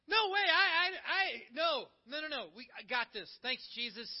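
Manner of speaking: mock-panicked no thanks; flustered refusal. Person turning Jesus away from the boat, flustered stammering refusal. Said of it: "And you're like".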